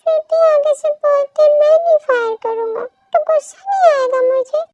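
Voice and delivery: a lightly voiced scolding friend. Second woman character voiced.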